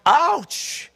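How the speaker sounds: sudden high yelp of a wince; mock wince. Real, not acted. Pastor reacting to Peter's bold words, high wince. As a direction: react like the line stung you. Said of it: "really intense".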